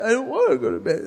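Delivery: lightly voiced tired daughter; whiny little girl. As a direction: whine it back at dad like a tired girl. Daughter refuses again.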